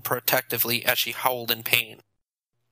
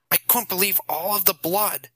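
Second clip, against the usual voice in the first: Nathan gloating; 6 semitones higher than usual. A narrator's reading. Nathan relishing the gore.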